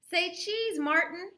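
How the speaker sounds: put-on child voice. Ruthie photographing.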